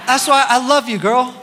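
laughing at a quip from the crowd; laughing affection. Real, not acted. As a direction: chuckle it out fondly. Laughing at audience reply.

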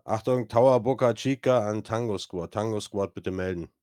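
crisp tower radio call. Acted. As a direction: announce it like a radio operator. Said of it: "Da knackt es im Funk".

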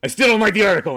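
high, loud mock indignation; huffy last word. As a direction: bluster before storming off. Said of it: "And he stormed off".

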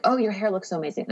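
mock-gushing friend; gushing compliment.

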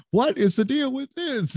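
very high-pitched mocking imitation; badgering host impression. Guest teasing host about stomping over talkers, mock badgering. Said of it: "you'll just kinda drown 'em out".

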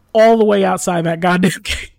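loud exasperated rant breaking into a laugh; laughing exasperation. Real, not acted. Storyteller griping about hauling free food to the gate, exasperated. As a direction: complain loudly, cracking up at the end.

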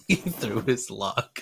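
laughing. Real, not acted. Laughing repeat.

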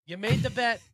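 acting as Ron.

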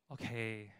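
slow, understated giving in; resigned surrender. Retold or imitated. Servant giving in to God after arguing, resigned. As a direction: draw out a reluctant concession.

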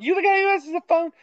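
put-on high, fast Boston accent. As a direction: blurt it in a thick Boston accent. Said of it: "my Boston accent sometimes comes out".

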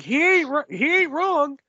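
high, laughing mock agreement; a laughing, tongue-in-cheek he ain't wrong. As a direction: chuckle it out, mock-agreeing with the sign. Mock agreeing with fan sign.

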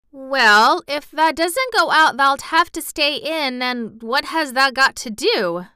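put-on chatty Yorkshire servant girl, rattling on; Yorkshire maid gossiping cheerfully; Martha's Yorkshire voice. A narrator's reading. Martha reasoning.

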